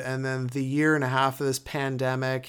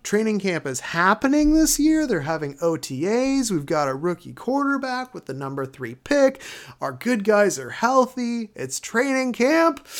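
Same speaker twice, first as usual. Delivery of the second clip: getting more pumped up with each line; excited; 5 semitones higher than usual. Real, not acted. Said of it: "I'm trying not to yell".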